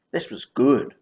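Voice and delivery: whispered to himself, pleased. Real, not acted. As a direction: hush it like a private win. Private pleased thought.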